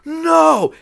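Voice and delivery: long, high disbelieving yell; imitated freak-out. Drunk friend learns who his old bandmate is, freaking out. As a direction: wail it in mock astonishment. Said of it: "he just starts freaking out".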